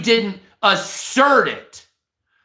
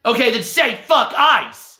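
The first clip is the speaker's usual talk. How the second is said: retold demand; 3 semitones higher than usual. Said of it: "And the guy says".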